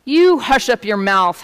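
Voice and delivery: mild royal howl. A narrator's reading. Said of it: "howled the mighty King Yertle".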